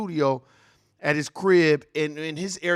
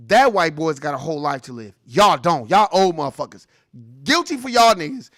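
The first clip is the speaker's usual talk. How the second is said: louder, forceful ranting; 7 dB louder than usual. Real, not acted. Streamer ranting about unequal verdicts, loud. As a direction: hammer the double standard.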